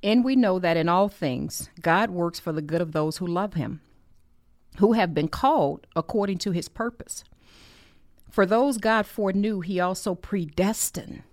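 firm, emphatic Bible reading; scripture reading. Real, not acted. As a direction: read the verse out to listeners with conviction. Reads scripture aloud.

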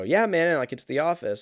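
high, loud eager brightness; overly eager to please; nervous cheer. Retold or imitated. Runner tries to placate stranger, loud nervous cheer. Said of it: "I go".

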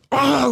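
high-pitched frustrated "aah"; mock rage yell. Kid finally so mad, mock rage cry. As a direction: burst out in imitated fury. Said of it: "I get so fucking mad".

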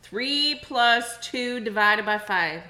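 each word slowly spelled out; slow down to make it clear; slow and deliberate. Shown as a demonstration.

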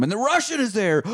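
a touch of a dramatic reveal. Acted. Recapping the movie twist to co-hosts, mild drama. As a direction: lightly build suspense on the reveal. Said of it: "dramatic pause".

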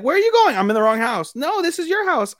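high-pitched mock bewilderment; baffled mock exchange. Retelling the wrong-house scene to a co-host, high-pitched and baffled. Acting out the confused homecoming exchange.

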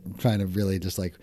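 put-on raspy voice; rough it up like a rock singer; smoker's rasp. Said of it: "make my voice raspy".

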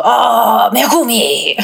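Megumi said high and drawn out, a hint of a swooning white guy; mock white guy. Mocking how a white person says Megumi, gushing. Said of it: "white person go".

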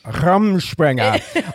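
Rumspringa drawn out slowly, each syllable stretched; slow relish of Rumspringa; savoring the name. Real, not acted. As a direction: linger lovingly over Rumspringa. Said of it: "I love the name".

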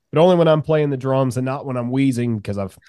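hoarse from coughing, sick. Real, not acted. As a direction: sounds sick, wheezy and worn. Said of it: "You sound sick".

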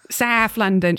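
South London vowels on the place name; South London accent. Acted. Game master placing a guest, in a South London accent. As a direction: say it "Saf Landan", Cockney style. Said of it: "she is from London".

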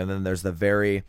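speaking through hiccups; hiccuping mid-sentence. Real, not acted. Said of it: "ooh, pardon me, I got the hiccups".

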